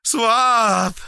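high loud call. A narrator's reading. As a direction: shout his name. Calling again.

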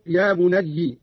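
"بني" as bunayyi; kasra on the ya. Shown as a demonstration. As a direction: end "بني" on an i vowel. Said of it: "بكسر الياء". ("بني" بكسر الياء)

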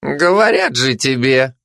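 lazily drawn out, slow; lazy drawl. Acted. Lazy dog drawls at the excited glutton, slowly. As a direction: draw it out, too lazy to care. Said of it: "лениво протянула Лежебока".

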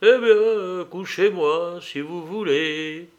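high, loud start easing down slowly; irritated irony. A narrator's reading. Dying man letting them lay him down, irritated. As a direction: give in testily, trailing into slowness. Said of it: "avec une espèce d'ironie irritée".

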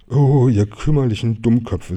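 mildly exasperated telling-off; scolding. Acted. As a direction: scold the two fighting friends. Finch scolds the brawling friends.

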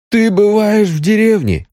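very high-pitched amazed question; incredulous. A narrator's reading. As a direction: ask as if you can't believe it. Friend astonished by village visits.

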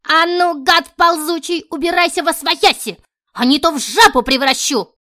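high, loud, furious threat; threatening old witch. Acted. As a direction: drive him off with a curse. Witch threatens to curse him.

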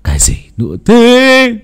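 husband snaps at his wife in irritation; irritated snap. Acted. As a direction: bite back at her annoyed. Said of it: "mà hằn học".

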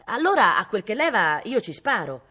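loud, high start easing down; insistent. A narrator's reading. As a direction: press the point by calling it out. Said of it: "insisté Cosimo".

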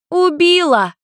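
high, loud gleeful yell; girl calling out from behind the sofa, high and loud; shouted out. A narrator's reading. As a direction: blurt it out from hiding. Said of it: "выкрикнула Люся из-за дивана".

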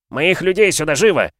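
loud, high barked order; shouted order. A narrator's reading. Young lord ordering groom, shouted command. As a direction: snap the order at the servant.

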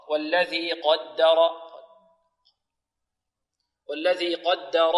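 slow "قدر" with heavy qaf and ra, light doubled dal. Shown as a demonstration. Teacher models the verse, heavy-light-heavy "قدر". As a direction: recite "قدر" as qawd-da-raw, measured. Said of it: "والراء ماذا؟ مفخمة".

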